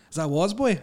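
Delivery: mock lisp. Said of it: "Jonathan Ross goes".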